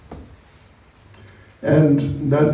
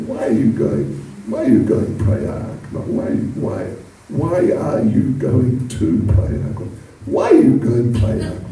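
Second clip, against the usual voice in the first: lower voice; 6 semitones lower than usual. Shown as a demonstration. The speaker redoes Krishna's question lower, for a listener. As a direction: say it low and heavy, as someone else would. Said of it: "You, you speak like that".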